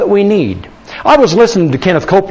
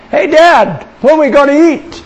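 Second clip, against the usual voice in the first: put-on high-pitched kid calling to Dad; imitated kids; 8 semitones higher than usual. Kids asking Dad about food on the trip, imitated high whine. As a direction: mimic hungry children piping up from the back. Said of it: "the kids would say".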